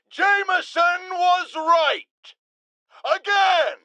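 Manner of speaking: high triumphant shout, slowed on the first words; gloating shout. Acted. Radio host to listeners, a gloating triumphant shout. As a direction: crow it out, the vindicated blowhard. Gloating about being right.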